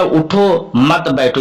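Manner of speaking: उठो set apart, then a slow मत बैठो; slowly, उठो on its own and मत बैठो as one unit; pause after उठो. Shown as a demonstration. Teacher explaining what the sentence means, pause after उठो. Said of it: "उठो पर रुक गया".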